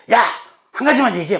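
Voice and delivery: sudden loud, high mock outburst; exasperated scolding. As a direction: shout it like you're fed up with a rambler. Scolding someone who rambles, acted.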